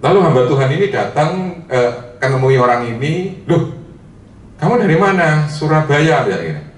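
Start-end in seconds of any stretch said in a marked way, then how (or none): 3.5-6.7 thick Javanese medok, high and drawn out; medok Javanese accent. Retold or imitated. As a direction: play the woman from Surabaya in heavy medok. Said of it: "Dalam bahasa yang medok seperti itu". (logat medok Jawa yang kental)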